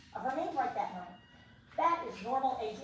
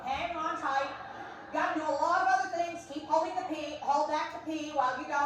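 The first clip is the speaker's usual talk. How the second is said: louder insistent hold the pee; mock urgent coaching; 3 dB louder than usual. Lecturer coaching the bladder to hold, louder and insistent. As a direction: urge yourself to keep holding.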